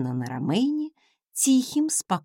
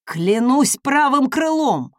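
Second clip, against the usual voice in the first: higher, louder pleading swear; envoy swearing on his wings; frantic oath; 5 semitones higher, 6 dB louder than usual. Acted. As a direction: protest innocence desperately.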